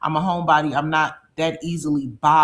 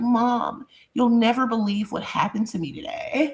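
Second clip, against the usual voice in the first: proper, high, well-spoken voice; 7 semitones higher than usual. Imitating a daughter who talks very properly: imitating daughter's proper voice. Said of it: "she's so proper".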